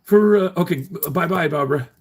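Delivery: high, whiny mock of critics. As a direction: mimic them with a high sneer. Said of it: "They're like".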